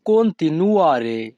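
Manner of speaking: very slow, careful teacher pronunciation; slow Italian model word. Shown as a demonstration. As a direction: stretch the word for learners. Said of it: "Italian ভাষা continuare".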